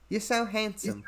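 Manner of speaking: soft British accent attempt. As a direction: say it softly, imitating a British accent. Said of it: "she's doing a British accent".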